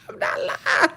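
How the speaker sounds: whispered. Real, not acted. Swearing the story is true.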